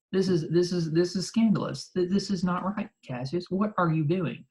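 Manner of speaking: a touch of acted indignation; mildly scandalized. Acts Brutus scolding Cassius.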